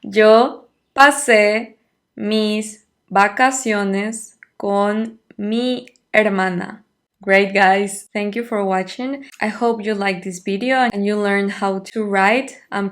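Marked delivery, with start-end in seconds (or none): 0.0-6.8 slow, clear teacher's Spanish; slow model answer. Shown as a demonstration. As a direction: read it out slowly for students to repeat.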